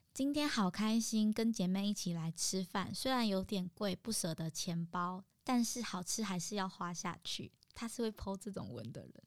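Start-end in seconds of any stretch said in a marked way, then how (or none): 0.1-7.5 mock cheery post. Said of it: "他po文永远都是".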